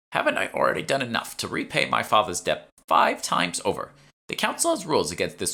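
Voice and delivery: a hint of a put-upon old lady complaining; indignant old shopwoman. Shopwoman protesting her debt, mildly aggrieved old voice.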